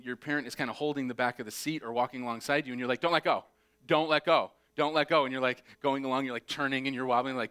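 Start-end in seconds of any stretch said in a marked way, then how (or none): 3.0-5.2 anxious pleading. Retold or imitated. Child begging parent while wobbling.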